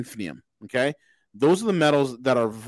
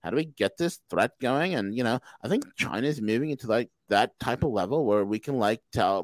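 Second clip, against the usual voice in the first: put-on Valley girl voice; 3 semitones lower, 4 dB quieter than usual. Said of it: "He actually talks like a Valley girl".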